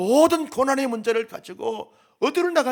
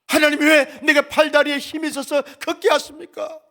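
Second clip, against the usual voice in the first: anguished complaint to God; 6 dB louder than usual. Acted. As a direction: pour out your grief louder with each question. Job crying out to God. (점점 격해지는 탄원)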